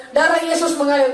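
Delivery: mild re-enacted shout of faith; retold cry. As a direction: cry it out at moderate volume.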